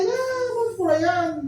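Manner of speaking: high and slow, stretching the distance; exaggerated high drawn out. Real, not acted. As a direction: stretch it high to show how far. Exaggerating how far you drift. (alto y lento, exagerando la distancia)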